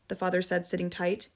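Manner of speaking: ordinary delivery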